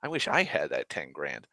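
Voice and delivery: sulky regret kept under the breath; grumbling regret. Retold or imitated. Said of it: "'cause it'd be like".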